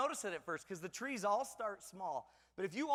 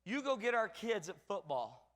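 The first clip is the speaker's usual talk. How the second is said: imagined flattering wife; slower than usual. Pretend. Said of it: "meant, in my mind".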